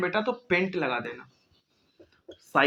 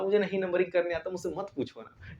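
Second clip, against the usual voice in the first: mock student whine; 7 dB quieter than usual. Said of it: "अभी ये नहीं बोला".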